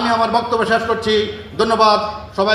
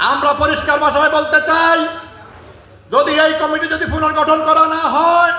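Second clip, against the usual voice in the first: forceful, insistent political oratory; rally speech; 3 semitones higher than usual. Real, not acted. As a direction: address a crowd with defiant warning, phrase by phrase.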